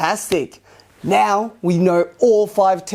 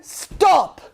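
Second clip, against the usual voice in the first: loud command; 4 semitones higher, slower than usual. Shown as a demonstration. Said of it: "loud as you can".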